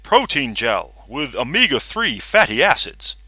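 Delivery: muffled voice from inside a vat. Acted. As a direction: speak as if through a covering. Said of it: "a muffled voice said".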